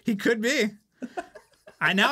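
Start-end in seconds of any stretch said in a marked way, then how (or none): 0.0-0.6 laughing. Real, not acted. Amused guess about guest.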